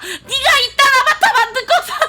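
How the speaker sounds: high loud accusing yell; angry yelling. Real, not acted. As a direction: shout the accusation. Accusing the NPC.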